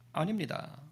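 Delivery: ordinary delivery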